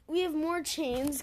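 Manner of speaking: loud, sharp threat; yelling in her ear. A narrator's reading. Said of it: "Kestrel yelled in her ear".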